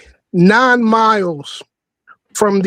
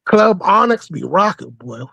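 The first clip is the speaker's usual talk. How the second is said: ordinary talk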